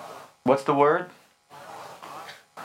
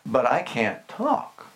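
timid Moses; 3 semitones lower, slower than usual. Retold or imitated. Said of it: "And Moses says".

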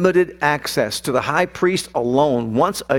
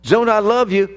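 earnest declaration of love; 5 semitones higher than usual. Retold or imitated. Father tenderly declaring love to daughter.

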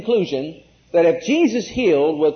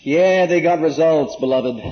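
preaching out loud; 6 dB louder than usual. Acted. Preacher proclaims results.

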